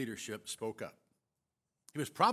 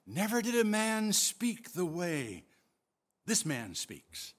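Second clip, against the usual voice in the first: awed, hushed wonder; amazement; 3 semitones higher than usual. Acted. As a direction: say it as if struck with awe. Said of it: "They said with amazement in their voice".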